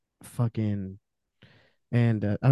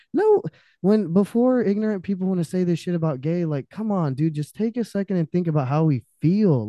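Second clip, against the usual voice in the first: impassioned outburst; 6 semitones higher than usual. Real, not acted. Impassioned rant at ignorant people.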